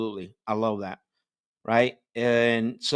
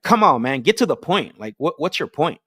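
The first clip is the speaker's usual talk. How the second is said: imitating an impatient caller, louder and higher on get to the point; impatient driver; 4 semitones higher, 6 dB louder than usual. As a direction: hurry them up, fed up. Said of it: "the driver's gonna go crazy".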